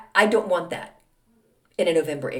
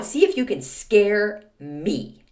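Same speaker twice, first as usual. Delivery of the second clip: taunting; slower than usual. Real, not acted. Slow taunt.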